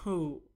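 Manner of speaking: put-on little cough; mock cough. Narrator mimicking the landlord, mock cough. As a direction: fake a throat-clearing cough. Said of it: "اینجا مثلاً سرفه کرد".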